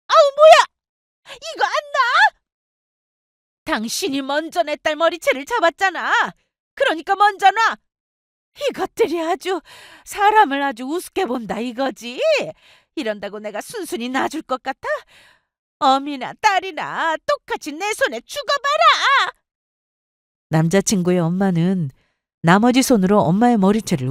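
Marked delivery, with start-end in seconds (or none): 0.1-2.4 very high, drawn-out yelp; outraged shriek. Acted. Boyfriend's mother has her hair grabbed, shrieking in outrage. 3.6-7.8 high-pitched, straining protective mother; angry retort. Acted. Girlfriend's mother tells the attacker to let go, angry. 8.7-19.3 high-pitched, seething mother figure; vicious threat. Acted. Boyfriend's mother grips mother and daughter by the hair, seething.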